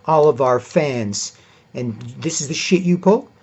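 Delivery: a hint of Kevin Durant scolding; lightly voiced Kevin Durant. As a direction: spell it out like an exasperated teammate.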